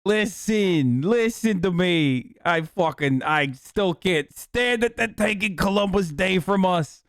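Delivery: aggrieved, hammed-up New Jersey Italian; New Jersey Italian accent. Assimilated immigrant griping about Columbus Day, New Jersey Italian accent. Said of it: "all of a sudden out of nowhere, I'm like".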